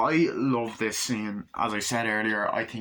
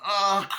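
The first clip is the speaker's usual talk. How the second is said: high strained imitated grunt; birth sound effect; 8 semitones higher, 4 dB louder than usual. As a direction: grunt out a squelchy push noise. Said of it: "you hear the sound effect".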